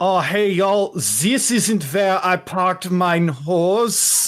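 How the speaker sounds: awful put-on German accent. Retelling a character's line, worst German accent. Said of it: "you hear him do in in the worst German accent".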